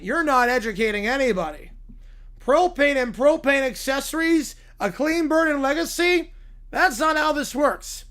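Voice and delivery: Hank Hill. Retold or imitated. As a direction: lecture them like a stern Texas dad. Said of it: "by Hank Hill".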